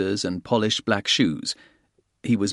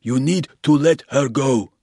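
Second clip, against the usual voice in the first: polite porter; 4 semitones higher, 4 dB louder than usual. A narrator's reading. Porter urging the guest.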